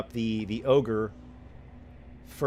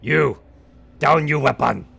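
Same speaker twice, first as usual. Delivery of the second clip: louder brutish ogre order; ogre shout; 4 semitones higher, 10 dB louder than usual. Acted. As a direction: bark at him like an ogre. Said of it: "Then the ogre to Henderson".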